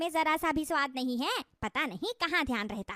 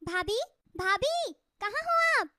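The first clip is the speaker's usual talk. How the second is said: high-pitched call drawn out across the house; 6 semitones higher, slower than usual. Acted. Riya calling her sister-in-law from another room, high and drawn out. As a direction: call for your bhabhi, slow then sharp.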